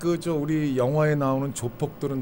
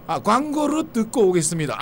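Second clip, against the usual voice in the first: Japanese accent Korean; 7 semitones higher than usual. Shown as a demonstration. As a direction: greet like a Japanese speaker. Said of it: "뭐 이런 식으로".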